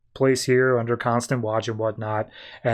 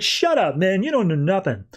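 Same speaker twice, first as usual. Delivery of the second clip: higher, mock-angry shut up; hammed-up angry brush-off; pissed-off snap; 5 semitones higher than usual. Roy shoving the doctor against the wall, mock-angry higher snap. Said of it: "Roy is just immediately pissed".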